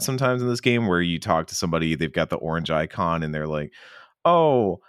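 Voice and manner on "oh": chirpy quest giver. Retold or imitated. NPC offering side quest.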